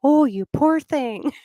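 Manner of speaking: mock-tender nature-show whisper; pitying Australian host. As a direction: coo over it like a sorry wildlife host. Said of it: "really messy".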